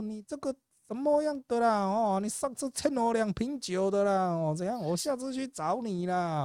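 high, lilting mock indigenous Taiwanese accent; caricatured indigenous Taiwanese accent, pitched high; imitated Taiwanese indigenous accent. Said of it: "他在学原住民讲话".

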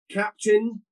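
stern summons, office now slowly; stern manager. Retold or imitated. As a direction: call the captain in sternly. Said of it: "and he went".

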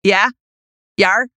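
jokey attempt at a Minnesota accent; mock Minnesota accent, off-target for Massachusetts. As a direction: put on a rough Minnesota accent for fun. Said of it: "doing a Minnesota accent for Massachusetts".

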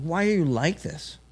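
a lightly voiced homeless man, pitched a bit up; homeless man's voice. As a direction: echo his question back in his voice. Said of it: "He's like".

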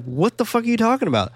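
high, fast, baffled retort; mock incredulous outburst. Podcaster voicing Rose answering her fiancé, in high-pitched disbelief. Voices Rose's stunned reply to fiancé.

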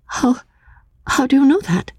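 high, startled and suspicious; alarmed young woman. Acted. Anne to the narrator, high and alarmed. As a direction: recoil at what he knows.

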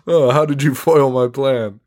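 lightly voiced foiled villain; mock movie villain. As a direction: ham up a thwarted evil schemer. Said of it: "The James Bond of fucking haunted houses".

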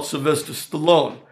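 a light mock Stallone sign-off on the answering machine; Stallone impression. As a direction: sign off with the name as a tough guy, lightly imitated. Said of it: "and I hear".

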